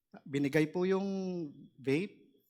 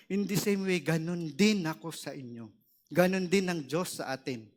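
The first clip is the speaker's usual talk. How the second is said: voice of the Holy Spirit; 3 semitones higher than usual. Retold or imitated. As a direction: deliver God's message with conviction. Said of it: "mensahe galing sa Holy Spirit". (mensahe ng Espiritu Santo, medyo malakas)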